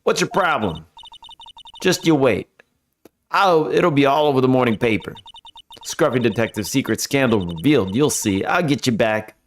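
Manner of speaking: lightly voiced Southern reporter threatening payback; mild Southern huff; Southern gal vowing revenge, half-hearted; southern accent. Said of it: "A southern accent can only mean".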